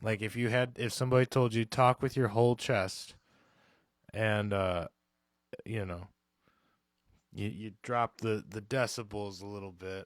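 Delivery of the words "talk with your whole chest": normal talking voice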